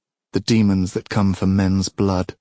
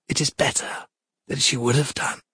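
cold goddess; 6 semitones higher, 3 dB quieter than usual. Acted. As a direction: speak down to a mortal king. Goddess voice of Thetis.

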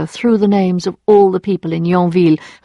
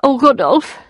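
higher, wistful sigh of his name; 6 semitones higher than usual. A narrator's reading. Emma to her former lover, wistfully sighed. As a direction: sigh it out, pitched up. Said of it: "she sighed".

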